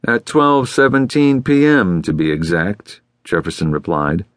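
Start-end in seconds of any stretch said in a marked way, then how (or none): 0.0-3.0 testy correction, dropping at the end; annoyed. A narrator's reading. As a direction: spell out the time with obvious annoyance. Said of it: "obviously annoyed".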